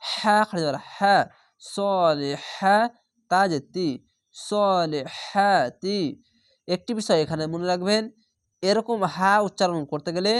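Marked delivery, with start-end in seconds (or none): 4.4-6.0 সলিহাতি drawn out very slowly, the long vowel held; Quranic recitation. Shown as a demonstration. Teacher recites the phrase for students, slow drawn chant. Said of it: "এক আলিফ টেনে পড়বেন".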